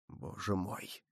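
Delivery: barely voiced, stunned; near whisper. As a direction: breathe it out in horror. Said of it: "прошептал Атос".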